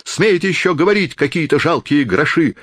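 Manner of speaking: beside herself. A narrator's reading. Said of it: "крикнула она вне себя".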